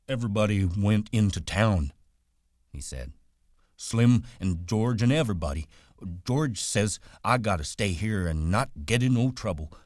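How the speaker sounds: put-on Lenny explaining he was left behind, childlike; simple Lenny. A narrator's reading. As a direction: plead like a lonely child. Voices Lenny in story.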